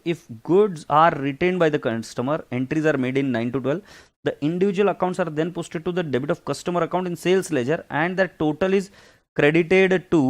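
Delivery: reading the textbook line aloud, slow and measured. Acted. Teacher reading the accounts rule to students, slow and measured. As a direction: spell it out slowly from the book.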